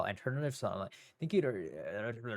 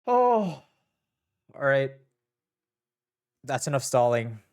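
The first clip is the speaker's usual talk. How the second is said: pump-up call; 8 dB louder, much slower than usual. Real, not acted. Psyching herself up to start.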